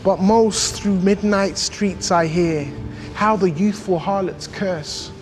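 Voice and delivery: measured, emphatic poetry reading; poem recitation. Acted. Hip-hop artist performing Blake's angry London poem, emphatic recitation. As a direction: recite it with punched key words and deliberate pauses.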